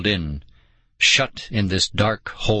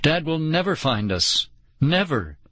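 wailing; 6 semitones higher than usual. A narrator's reading. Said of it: "Nicole wailed".

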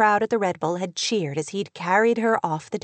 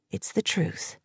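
understated calm, softly spoken; 2 semitones lower, 6 dB quieter than usual. A narrator's reading. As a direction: say it quietly, keeping composed. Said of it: "he said calmly".

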